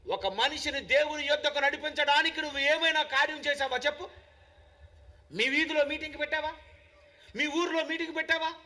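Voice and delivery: insistent, repeated sermon questions; ringing pulpit challenge; full-force preaching. Acted. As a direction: press the congregation for an answer.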